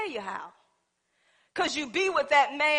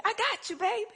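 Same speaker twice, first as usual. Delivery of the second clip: sweet reassurance; 5 semitones higher, 4 dB quieter than usual. Retold or imitated. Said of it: "a woman when they say".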